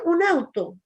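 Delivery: older brother's mild taunt, imitated; teasing call. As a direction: tease her casually, half-hearted. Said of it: "el Pablo simplemente le decía".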